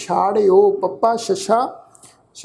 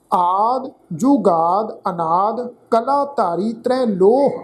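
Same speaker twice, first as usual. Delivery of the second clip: measured Gurbani reading, phrase by phrase; deliberate teaching recitation of sacred verse; scripture recitation; slower than usual. Shown as a demonstration. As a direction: recite with drawn-out vowels and pauses between phrases. Repeats the final verse.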